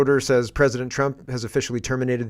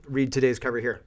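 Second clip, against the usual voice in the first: talking with food in mouth; words around a mouthful; mouth full; 3 dB quieter than usual. Real, not acted. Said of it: "Sorry, I got something in my mouth".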